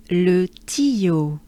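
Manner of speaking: "Le tuyau" em francês, lábios projetados no "uy"; French le tuyau. Shown as a demonstration. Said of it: "this name sounds like this".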